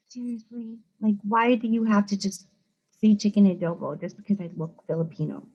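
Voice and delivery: annoyed push-back at "chicken adobo"; offended reaction. Retold or imitated. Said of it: "some people are like".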